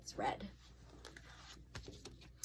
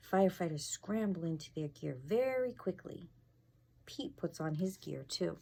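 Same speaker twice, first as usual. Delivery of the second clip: lively picture book reading; reading to children. A narrator's reading. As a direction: read it aloud to the class.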